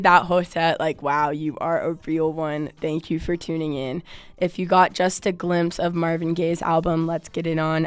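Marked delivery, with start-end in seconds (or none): 4.4-7.9 rough, hoarse radio host voice. Real, not acted. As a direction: talk through a worn, hoarse throat. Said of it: "hoarse voice over it".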